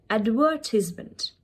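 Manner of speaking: "advertisement" as ad-VUR-tiz-ment; British pronunciation. Shown as a demonstration. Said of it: "Try to copy the same accent".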